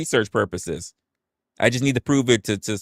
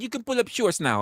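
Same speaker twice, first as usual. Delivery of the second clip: imitating the nurse; 13 semitones higher than usual. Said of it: "she said".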